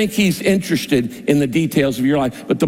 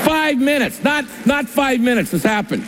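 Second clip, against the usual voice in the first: high excited exclaim; amazed; 8 semitones higher than usual. Real, not acted. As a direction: stress the wonder, voice jumping up. Amazed at answered prayer.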